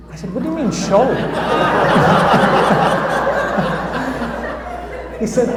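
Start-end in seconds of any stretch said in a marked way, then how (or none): 0.3-5.2 surprised question. Retold or imitated. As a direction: caught off guard by the offer. Surprised reply to radio host.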